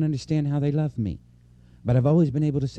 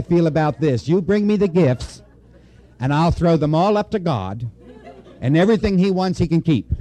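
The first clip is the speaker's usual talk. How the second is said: laughing; 5 semitones higher, 6 dB louder than usual. Real, not acted. Joking about gifts to God.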